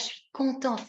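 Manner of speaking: tender mild delight; heartfelt contentment. Shown as a demonstration. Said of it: "quand on est content, ça réchauffe le cœur".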